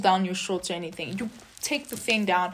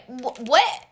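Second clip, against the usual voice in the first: flustered, higher and louder, stumbling fast; panicked denial; 3 semitones higher, 4 dB louder than usual. Retold or imitated. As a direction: deny everything in a rushed panic.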